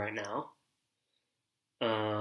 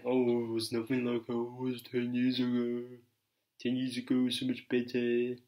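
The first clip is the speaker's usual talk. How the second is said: nostalgic whiner. Retold or imitated. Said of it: "people reminiscing, saying".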